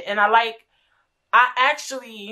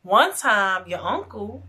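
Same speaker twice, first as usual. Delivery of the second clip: slow, imitated grave aunt; slow and solemn retelling; dead serious; slower than usual. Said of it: "like she dead serious".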